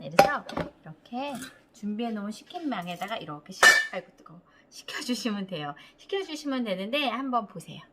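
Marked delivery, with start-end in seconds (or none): 3.9-4.4 muttered ouch. Real, not acted. Touches hot pie. 4.7-5.7 whispered aside after burning her hand. Real, not acted. Host whispering to viewers after touching the hot pan.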